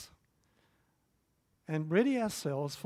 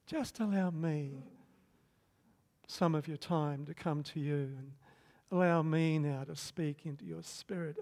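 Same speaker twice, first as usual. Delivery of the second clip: gentle voice of God; 3 dB quieter than usual. Retold or imitated. God speaking gently to a kneeling man, soft and tender. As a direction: speak it like a loving father, unhurried. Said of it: "still quiet voice".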